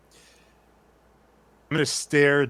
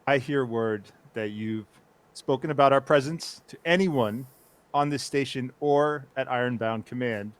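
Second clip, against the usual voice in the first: stern; 3 semitones higher, 4 dB louder than usual. Acted. Superior threatens soldier.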